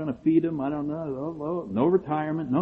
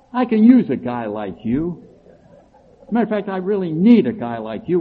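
eager tycoon; 4 semitones higher than usual. Retold or imitated. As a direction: sell it like a big shot. Imagined businessman offering job.

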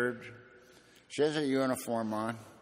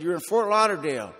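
curt attendant; 6 semitones higher, 8 dB louder than usual. Retold or imitated. Attendant answering curtly.

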